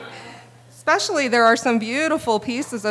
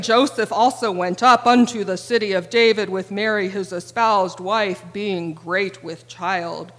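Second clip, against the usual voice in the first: solemn King James reading. Retold or imitated. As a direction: intone it with old-fashioned reverence. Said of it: "Instead of hearing".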